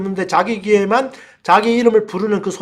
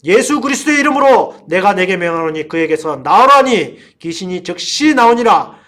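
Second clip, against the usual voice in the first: loud scripture proclamation of an exorcism; forceful preacher's recitation; declaimed command; 6 dB louder than usual. Acted.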